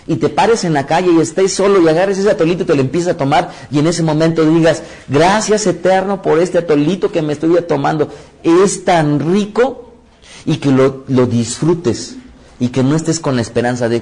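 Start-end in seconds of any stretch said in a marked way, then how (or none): 5.1-9.9 lifted, thankful little prayer, last words drawn out slow; a simple thanks over a warm drink, slow at the end; grateful savoring. Pretend. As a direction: savor it as you thank God. Imagined grateful prayer quote.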